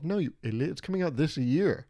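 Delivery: scolding himself for misreading the trailer year, mildly; self-scolding. Retold or imitated. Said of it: "I quickly remind myself".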